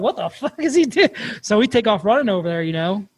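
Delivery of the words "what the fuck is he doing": retold bewilderment. Retold reaction to screaming buddy.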